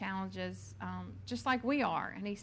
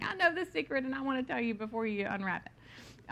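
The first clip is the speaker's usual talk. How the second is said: put-on excited child; 3 semitones higher than usual. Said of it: "so excited she couldn't stand it any longer".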